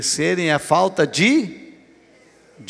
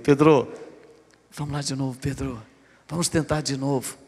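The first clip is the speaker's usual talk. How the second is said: gentle encouragement; 3 semitones lower, 4 dB quieter than usual. Acted. Jesus encouraging discouraged Peter.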